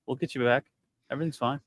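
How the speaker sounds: softly reassuring, as if to the injured; acted bedside reassurance, kept light and easy; calm, soothing. Medic to someone badly injured, calm and soothing. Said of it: "be calm and be soothing".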